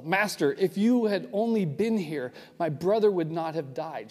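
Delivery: ticked reproach. Retold or imitated. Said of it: "She's even more ticked".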